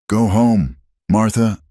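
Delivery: a loud, hard dismissal; curt shout. Acted. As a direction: bark her away. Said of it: "he fired".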